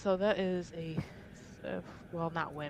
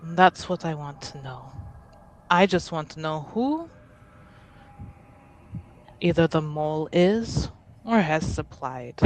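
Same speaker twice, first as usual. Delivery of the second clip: composed, affronted noble; 6 dB louder, slower than usual. Acted. Plays Ade demanding the mole.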